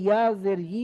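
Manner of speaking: ই as yi, tongue touching the palate. Shown as a demonstration. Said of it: "জিহ্বাটা ওপরে তালুর সাথে লাগিয়ে করেন".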